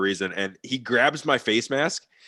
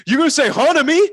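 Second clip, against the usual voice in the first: higher, louder mock yell; imitating a yelling coach; 9 dB louder than usual. Coach scolding the new player, mock yell. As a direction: bark it like a drill coach. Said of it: "yelled at me".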